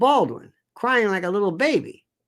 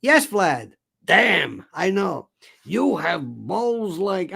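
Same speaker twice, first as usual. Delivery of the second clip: mock Trump voice; much slower than usual. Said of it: "Why I'm doing this voice".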